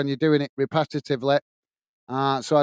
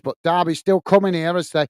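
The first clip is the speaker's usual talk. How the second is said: commentary climbing higher and louder; rising excitement; 3 semitones higher, 5 dB louder than usual. Real, not acted. Commentator calling Derby's cross for viewers, building excitement. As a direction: build towards the cross as the attack develops. Commentary rises as attack develops.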